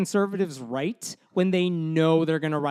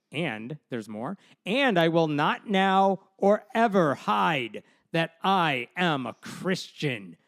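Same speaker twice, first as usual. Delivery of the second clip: slow, lightly hammed-up read of her letter; mock reading of the governor; slower than usual. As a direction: drawl it out slowly, a mild mock of a proud governor. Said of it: "I thought you were a really good actor".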